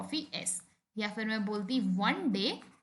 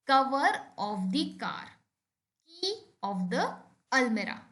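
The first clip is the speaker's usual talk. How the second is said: slow, deliberate reading of an example; slow example sentence; much slower than usual. Shown as a demonstration. Teacher reading an example to students, slow and clear. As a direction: spell it out slowly for the class. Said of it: "For example".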